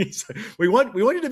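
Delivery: laughing through a mock official line; can't keep a straight face. Real, not acted. Guest mocking the central bank, laughing while speaking. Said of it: "hard to say with a straight face".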